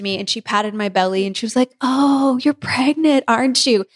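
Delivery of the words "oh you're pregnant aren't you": higher, mock-knowing teenage tease; sarcastic teasing. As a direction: pat the belly and tease, not believing a word. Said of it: "the way they were saying it".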